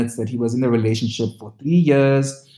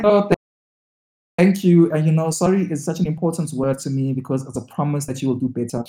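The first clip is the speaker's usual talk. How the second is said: mock sweet thanks. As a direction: parody her gushing. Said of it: "But this was like".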